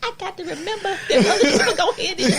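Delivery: high-pitched, laughing through the words. Real, not acted. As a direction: still giggling from a laughing fit. Recovering from laughing fit.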